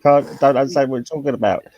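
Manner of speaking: chatty Cockney slang tale, lightly done; a touch of Cockney storytelling; Cockney accent. Shown as a demonstration. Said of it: "I'll speak a bit of Cockney".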